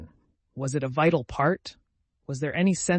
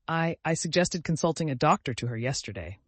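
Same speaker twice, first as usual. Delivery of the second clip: moaning; 3 semitones higher than usual. Acted. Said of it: "moaned Missus Frederick".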